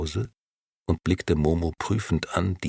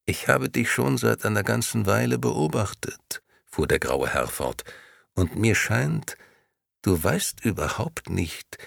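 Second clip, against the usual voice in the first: higher, coaxing stranger voice; smooth persuasive gentleman; 6 semitones higher than usual. Acted. Grey gentleman coaxing Momo.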